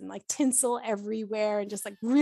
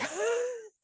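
imitated boozy gasp; 12 semitones higher than usual. Acting out childhood reaction to boozy dessert.

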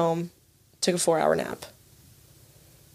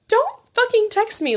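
retold annoyance; 13 semitones higher than usual. Retold annoyed reaction to text.

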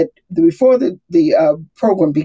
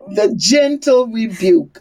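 laughing; 4 semitones higher, slower than usual. Real, not acted. Laughing while repeating her phrase.

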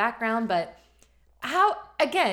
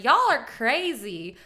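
slow, drawled teasing host line; impression of a singer and TV host; slower than usual. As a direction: tease the crowd like a TV host. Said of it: "That was a good impression of a singer".

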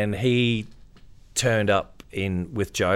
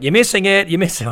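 urging partner; 11 semitones higher, 8 dB louder than usual. Retold or imitated.

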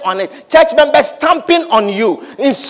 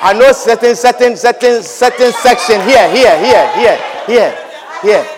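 mock congregation chatter. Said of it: "That is their language today".

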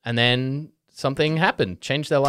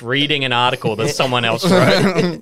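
laughing; 2 semitones higher, 7 dB louder than usual. Real, not acted. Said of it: "I worked hard on this".

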